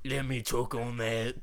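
mimicked Australian voice assistant; Australian accent. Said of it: "It's talking in Australian accent".

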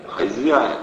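loud booming thug yell; boisterous bellow. A narrator's reading. Thug bellows at the startled host. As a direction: crash in on the host. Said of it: "обрушился Валерий".

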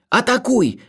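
high-pitched frightened plea; fearful pleading. A narrator's reading. Narrator begs Olga to attack, high fearful plea. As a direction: beg in rising panic. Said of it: "молил я, охваченный страхом".

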